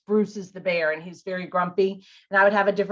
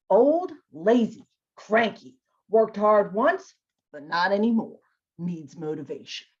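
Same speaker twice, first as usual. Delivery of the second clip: a hint of grumpy bear; 2 semitones lower than usual. Shown as a demonstration. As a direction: read it like the lazy old bear. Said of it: "kind of getting into that voice".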